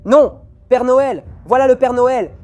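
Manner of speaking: high frightened yelling; panicked scream. Real, not acted.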